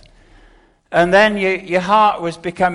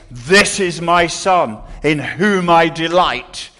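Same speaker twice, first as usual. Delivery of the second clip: slow, louder, solemn voice of God the Father; booming voice from heaven; 5 dB louder than usual. Retold or imitated. Preacher voicing God's words to the congregation, booming and slow. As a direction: proclaim it slowly like a voice from heaven. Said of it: "those boom moments".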